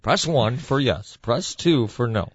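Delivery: slow automated phone system voice; phone menu voice. Retold or imitated. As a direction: read the options slowly like a recorded menu. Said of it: "one of those voice-activated systems".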